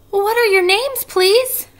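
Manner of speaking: very high, loud eager question; joyful eagerness. A narrator's reading. Wilbur asks the spiders' names, high and overjoyed. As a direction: burst out pitched right up with joy. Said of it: "trembling with joy".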